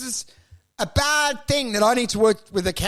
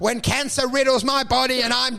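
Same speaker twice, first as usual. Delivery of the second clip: mock sappy vow; 3 semitones higher than usual. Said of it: "you've gotta respond".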